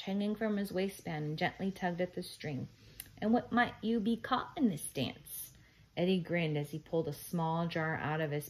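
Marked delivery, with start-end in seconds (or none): 3.2-5.5 a hint of lilting leprechaun; leprechaun teacher. A narrator's reading. Storybook leprechaun's Irish-phrased lines.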